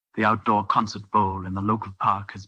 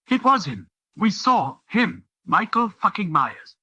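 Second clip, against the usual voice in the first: much higher and louder, all talking at once; excited girls insisting; 10 semitones higher, 4 dB louder than usual. Acted. Girls protesting to the doctor, higher and louder. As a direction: insist hard that it was him.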